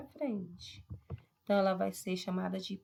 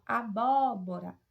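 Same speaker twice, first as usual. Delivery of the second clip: BÓ of "Abóbora" pushed and held; stressed second syllable; 4 dB louder, slower than usual. Shown as a demonstration. Teacher showing an antepenultimate stress, BÓ in "Abóbora" stressed. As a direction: lean hard on BÓ in "Abóbora". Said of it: "a antepenúltima sílaba".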